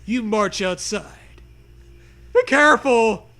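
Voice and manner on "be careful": loud, higher warning shout; yell. Acted. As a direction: shout it across the backyard at the kids. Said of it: "you yell".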